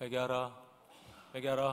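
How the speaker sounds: low, half-hearted, careless tone. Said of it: "대충 다녔을 거예요".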